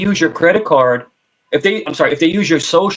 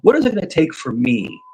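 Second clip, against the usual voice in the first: softer, calm sales voice; calm salesman; 4 dB quieter than usual. Shown as a demonstration. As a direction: reassure the buyer gently. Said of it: "if you start talking like this".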